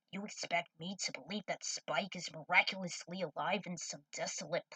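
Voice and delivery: a hint of a gruff older man, disbelieving; Jet scoffing. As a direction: Jet brushing off Trudy's nightmare.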